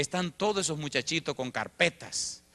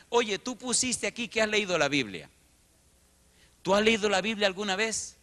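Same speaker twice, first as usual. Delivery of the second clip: doubtful lady; 8 semitones higher, 4 dB louder than usual. Retold or imitated.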